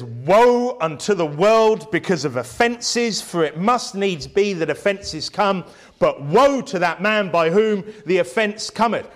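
slow, weighty scripture reading. Acted. Preacher reading the verse to his congregation, slow and weighty. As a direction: read the verse slowly, with gravity.

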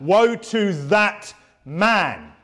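"Woe to that man" drawn out very slowly, each word weighted; emphasised. Real, not acted. Preacher emphasising the warning to the fathers, very slow and heavy. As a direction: lean hard on "Woe" and stretch the phrase. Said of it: "I'll emphasise that".

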